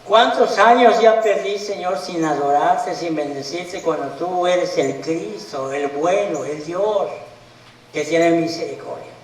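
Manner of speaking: a touch of tears in a retold plea for forgiveness; mild tearful prayer. New believer repenting to the Lord, mildly tearful plea. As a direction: pray it as if close to weeping, understated. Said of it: "hasta lloras y dices".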